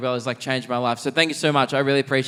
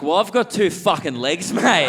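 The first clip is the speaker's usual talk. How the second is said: mock retort; 5 semitones higher, 4 dB louder than usual. Acting out his punchline retort.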